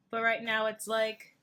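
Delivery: talking through a yawn; mid-yawn words. Real, not acted. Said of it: "sorry, I had to yawn".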